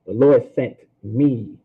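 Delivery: slow, with a held, separate "me"; pause, then stress the word "me"; emphasis on ME. Shown as a demonstration.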